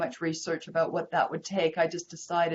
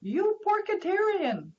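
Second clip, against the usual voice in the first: imitated Chinese accent, much higher and drawn out slowly; imitating a Chinese accent; 10 semitones higher, slower than usual. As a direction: tease like the restaurant owner in his Chinese accent. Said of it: "in his cute little accent".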